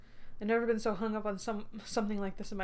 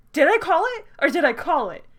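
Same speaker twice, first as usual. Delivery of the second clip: loud high gloating cry; triumphant shout; 8 semitones higher, 10 dB louder than usual. Real, not acted. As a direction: yell it out in triumph. Repeats gloat even louder.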